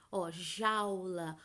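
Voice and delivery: jaula said very slowly, au as one glide; slow word demo. Shown as a demonstration. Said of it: "que é o caso da palavra jaula".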